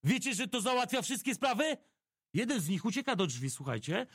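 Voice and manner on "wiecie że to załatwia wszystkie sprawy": firm challenge. Retold or imitated. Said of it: "i mówię do nich tak".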